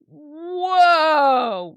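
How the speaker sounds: long, drawn-out mock "whoa"; stunned bystander. Bystander's shocked reaction acted out.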